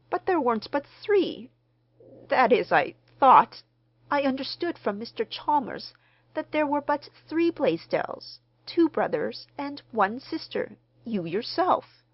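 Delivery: high, loud, alarmed protest; falter, then insist in alarm; startled surprise. A narrator's reading. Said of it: "startled surprise, a look almost of terror".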